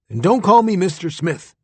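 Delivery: mild bark of annoyance; old astronaut correcting the boy, gruff. Acted. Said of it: "he barked".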